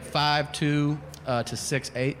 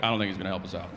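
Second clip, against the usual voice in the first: whitest detective; 5 semitones lower, much faster than usual. Retold or imitated. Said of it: "the whitest detective".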